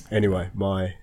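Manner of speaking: stuffy nose from a cold; nasally voice. Real, not acted. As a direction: talk through a blocked nose. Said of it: "nasally voice aside".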